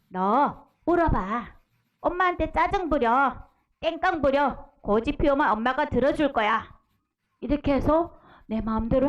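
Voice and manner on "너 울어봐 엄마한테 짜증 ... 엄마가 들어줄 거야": Satan whispering. Acted. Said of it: "사탄이 속삭여요".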